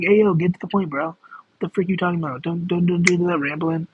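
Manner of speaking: a hint of a brusque bro, lightly voiced; mock rude viewer. Streamer mimics a viewer snapping at her to get to the point. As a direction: playfully bark it like an impatient viewer. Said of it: "politely, be like".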